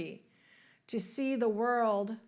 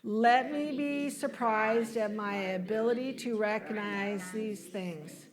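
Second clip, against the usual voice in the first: measured, deliberate affirmation in phrases; leading group recitation. Shown as a demonstration. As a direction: lead the congregation through it phrase by phrase. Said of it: "Why don't you say this with me".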